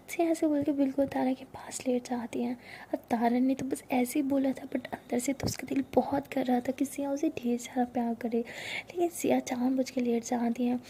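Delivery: whispered narration. A narrator's reading. Narrator whispering a love story to listeners. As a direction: breathe the story close to the mic.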